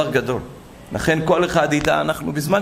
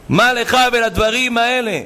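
high, raised-voice scolding; indignant, pitched-up reproach; indignant rebuke; 7 semitones higher, 4 dB louder than usual. Retold or imitated. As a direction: scold him with a rhetorical question. Preacher rebukes man over phone.

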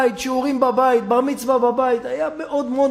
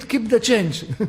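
drawn-out grand reply; much slower than usual. Acted. The son pays with the Mishnah.

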